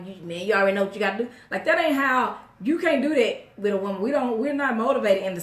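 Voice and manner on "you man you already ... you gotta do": homeboy pep talk. Retold or imitated. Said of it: "it's like".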